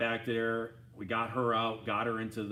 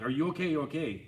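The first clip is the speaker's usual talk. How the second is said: higher, louder worried call; retold yelling; 6 semitones higher, 3 dB louder than usual. Rider running to crashed friend, worried yelling. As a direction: shout to check he's alive. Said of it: "And I was yelling out".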